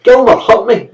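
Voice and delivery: put-on high, loud wailing child; angry bellow. A narrator's reading. Boy bellowing to his mother. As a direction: bawl it out to get mother's help. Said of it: "he bellowed angrily".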